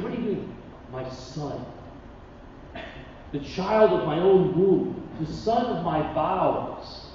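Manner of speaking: tender mother. Retold or imitated. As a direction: say it gently to a precious child. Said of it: "She's saying".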